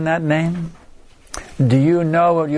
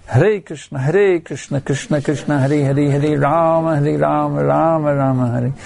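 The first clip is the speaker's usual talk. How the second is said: urgent, continuous mantra calling. Shown as a demonstration. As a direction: chant it as a plea for rescue, names running together. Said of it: "or calling out Krishna".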